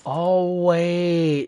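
sudden high excited call; surprised. Real, not acted. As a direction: catch yourself, suddenly excited. Sudden realisation in game.

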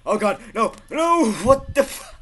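high, loud cries of disbelief; real outburst of alarm; panicked shout. Real, not acted. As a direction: yell out as it all goes wrong. Gets killed in game.

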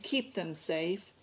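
soft, slow prayer. A narrator's reading. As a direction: pray softly, unhurried. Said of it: "he prayed".

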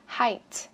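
"Height" ending on an audible puff of T; teacher's model "Height", T sounded; final T released. Shown as a demonstration. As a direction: pop the last sound of "Height". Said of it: "Bật âm T ra cho mình".

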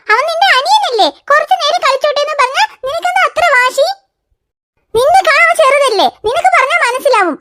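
scolding. Real, not acted. Mother scolds daughter over tub.

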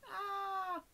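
small, high-pitched "aah"; little pretend cry; high soft mock cry. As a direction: let out a soft high wail. Imitated cry after kidnap scene.

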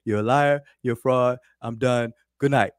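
较响的转述斥责; retold dismissal. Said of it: "he said".

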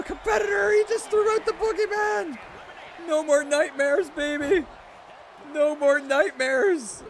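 high, loud triumphant yelling; excited cheering. Real, not acted. Streamer cheering his wrestler's big win, high and loud. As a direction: crow over the elimination at the top of your voice. Hype as boogeyman is eliminated.

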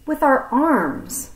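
stalling before breaking bad news; hesitant Piggy. Piggy explaining to the snake, awkward and hesitant.

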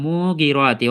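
মুগিরাতি with a stretched first মু; wrongly lengthened মু. Shown as a demonstration. Teacher imitating common readers, wrongly lengthened syllable. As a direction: draw out মু in মুগিরাতি, then move on. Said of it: "যদি আমরা এরকম করে পড়ি".

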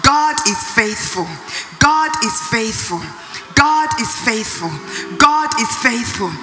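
declaration rising in force toward the end; building declaration. Shown as a demonstration. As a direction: build conviction with each repeat. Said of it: "Look at that situation and say".

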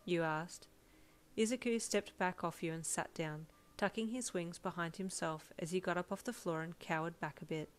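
story narration. A narrator's reading. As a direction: narrate the scene in a measured read. Reads a story aloud.

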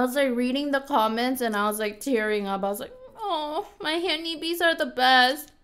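chewing between words; mouth partly full. Real, not acted. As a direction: hand at mouth while talking. Seen 0: hand at mouth, lips working on food while speaking.

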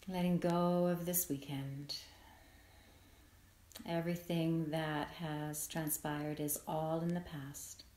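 calm, unhurried meditation voice with long pauses; guided meditation. Acted. Yoga nidra teacher settling listeners into rest, guided meditation. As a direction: ease them gently into letting go, leaving space between phrases.

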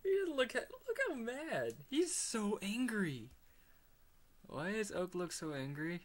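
loud, high-pitched, cracking up; helplessly amused outburst, very high and loud; laughing disbelief. Real, not acted. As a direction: exclaim it through real laughter. Cracking up at Oak's angry look.

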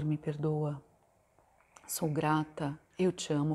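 slow, hushed mantra, word by word; slow soft Ho'oponopono prayer; soft prayer recitation. Acted. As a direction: pray it gently to yourself.

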